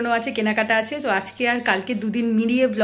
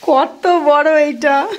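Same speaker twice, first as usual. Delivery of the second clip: put-on high, slow little child voice; child's voice; 8 semitones higher, 7 dB louder, much slower than usual. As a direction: quote the little one, high and drawn out. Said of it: "বলছে".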